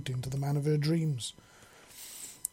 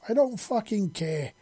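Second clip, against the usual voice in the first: higher-pitched, exasperated outburst; snarled retort; 7 semitones higher than usual. A narrator's reading. Furious mother cutting off her daughter's correction, snarled retort. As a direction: cut her off angrily. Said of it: "Grace snarled".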